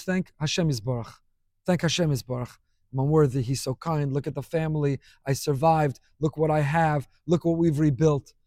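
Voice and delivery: put-on grateful old survivor. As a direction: voice the grateful grandfather gently. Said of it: "all the time he would say".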